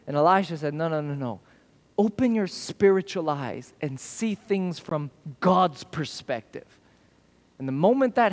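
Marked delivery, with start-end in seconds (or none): 0.7-6.6 calm reassurance. Retold or imitated. Elisha calming servant.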